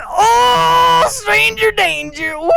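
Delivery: high loud mock panic, stretched slow; panicked mock alarm. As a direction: yelp it out like a startled kid. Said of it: "fight or flight response kicks in".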